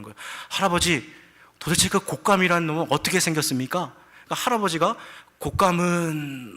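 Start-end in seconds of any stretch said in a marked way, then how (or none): 0.5-3.9 lightly acted grandson, pitched higher; questioning grandson tiger. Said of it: "손자 호랑이가 할아버지한테 물어보는". 5.4-6.6 drawn-out mock last words, higher pitched; dying last words. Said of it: "하다가 숨이 넘어갔어요".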